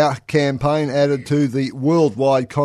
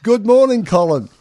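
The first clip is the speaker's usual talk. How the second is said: high bright greeting; open and friendly; 8 semitones higher, 6 dB louder than usual. Real, not acted. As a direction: call out good morning cheerily. Host greeting next member.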